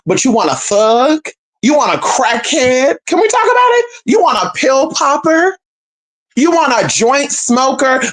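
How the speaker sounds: slow, rising disbelief; drawn-out challenge, pitch climbing; incredulous. Real, not acted. Rhetorical attack, rising.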